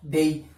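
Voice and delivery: डेई with an e-i glide; correct version. Shown as a demonstration. Teacher gives the final correct form again. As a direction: model डेई as a diphthong. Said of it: "क्या होता है?".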